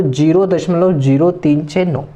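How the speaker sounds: "ज़ीरो, तीन, छः, नौ" as separate digits; Hindi digit-by-digit reading. Shown as a demonstration. Teacher showing Hindi-medium students, digit by digit. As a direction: give each of "तीन छः नौ" as its own digit. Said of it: "इस तरह से आपको Hindi English में पढ़ना है".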